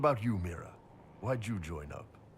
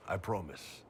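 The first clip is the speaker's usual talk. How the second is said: whisper. Real, not acted. Coaxing a friend along, whispering. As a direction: breathe it as a teasing aside.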